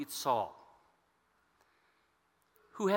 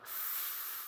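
long, savoring inhale; deep breath in; 14 dB quieter than usual. Acted. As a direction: breathe it in like oxygen. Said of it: "he was breathing in that".

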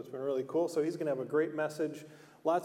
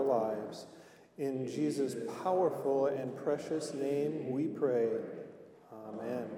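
measured pastoral prayer. Acted. Pastor leads opening prayer.

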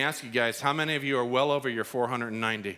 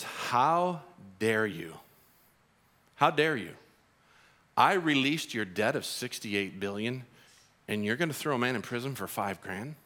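stern king rebuke; 4 semitones lower than usual. Retold or imitated.

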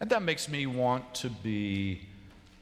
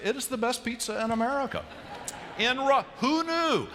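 full of conviction; 11 semitones higher than usual. Real, not acted. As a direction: proclaim it as a true believer. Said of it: "He sounded full of conviction".

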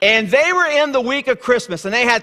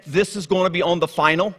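teacher's warning; 3 semitones lower than usual. Retold or imitated. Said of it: "when you hear the teacher say".

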